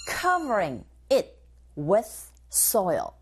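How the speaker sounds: slow, careful drill reading; teacher modelling the phrase slowly; slow model line. Shown as a demonstration. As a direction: say it slowly for students to copy. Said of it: "second point".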